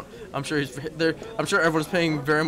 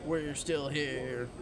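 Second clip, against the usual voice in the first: Princess Bride impression; 7 dB quieter, much slower than usual. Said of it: "my terrible Princess Bride impression".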